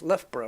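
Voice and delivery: Loughborough as "LUFF-bruh"; correct local pronunciation. Shown as a demonstration. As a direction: say Loughborough with an f, ending in a short "bruh". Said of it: "That's pronounced Loughborough".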